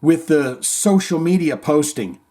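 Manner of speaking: high, hesitant mock voice of a timid band. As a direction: whine it like a cautious band member. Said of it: "you go".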